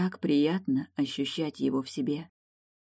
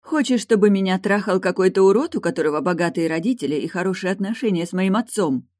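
higher and louder, bitter spite; spiteful; 5 semitones higher, 7 dB louder than usual. A narrator's reading. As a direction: spit out the bitter accusation. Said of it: "Злобно произнесла она".

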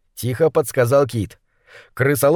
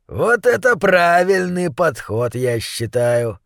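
contemptuous; 2 semitones higher than usual. Acted. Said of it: "презрительно оглядел".

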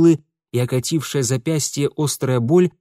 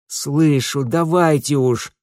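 groaning; 3 semitones higher, 4 dB louder, slower than usual. A narrator's reading. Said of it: "простонал Митя".

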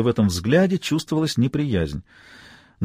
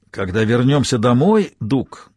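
lightly voiced out of breath; panting; slower than usual. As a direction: speak between tired breaths. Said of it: "задыхаясь".

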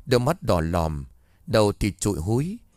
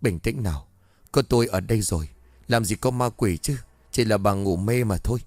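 gentle comfort. Acted. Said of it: "ông nhẹ giọng an ủi".

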